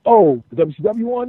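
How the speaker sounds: high-pitched retold eager question; retold excitement. Wrestler asks the writers about the title, high excited retelling. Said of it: "all happy and excited".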